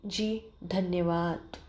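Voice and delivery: soft, slow, shaky thanks; whisper-soft timid thanks, held back; trembling voice. Acted. Maid Julia thanks her employer in a trembling voice. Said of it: "कांपते ही स्वर में".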